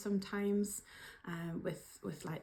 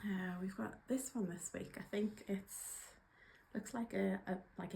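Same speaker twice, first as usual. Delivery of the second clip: soft whispered murmur to herself; whispered aside; 5 dB quieter than usual. Real, not acted. Looking at the drawn card, murmuring in a whisper. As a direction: whisper it while turning the card over.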